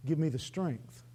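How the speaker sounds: low, softened pastoral appeal; altar call. Real, not acted. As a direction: gently invite them to come and pray. Preacher gives closing altar call.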